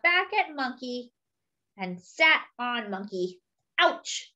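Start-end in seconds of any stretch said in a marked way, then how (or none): 3.8-4.3 mock ouch. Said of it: "said Monkey".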